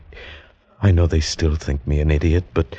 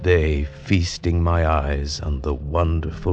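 reflective storyteller's narration over music; story narration. A narrator's reading. Looking back on his last day, reflective narration. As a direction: tell it as a memory.

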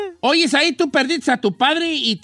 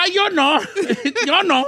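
dazed mother; 7 semitones higher than usual. Retold or imitated. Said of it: "hijos y madre mareada".

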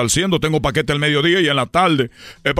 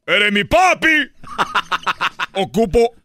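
súplica exagerada; 4 semitones higher, slower than usual. Acted. Ruega al retrato de su papá.

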